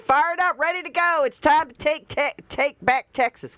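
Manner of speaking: high, hyped-up mock cheer; mock rally cheer. Mocking the Democrats' tweet with a high hyped cheer. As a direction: pitch it up like an eager rally post.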